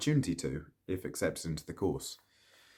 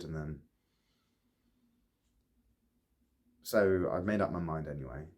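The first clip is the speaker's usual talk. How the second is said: Ollie confessing unrequited love. Acted. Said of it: "performing the role of Ollie".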